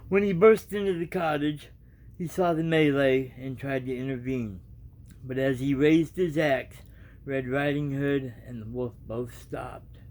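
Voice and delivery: reading a storybook aloud, evenly; casual storybook reading; story narration. A narrator's reading. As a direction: tell the tale to your viewers.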